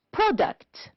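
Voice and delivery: product pitched high, then falling; high final product, stressed at the front; stress on first syllable. Shown as a demonstration. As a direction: punch the start of product high. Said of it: "first syllable".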